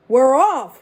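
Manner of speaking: loud crew shout. Acted. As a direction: cheer it out loud. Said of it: "we all shouted".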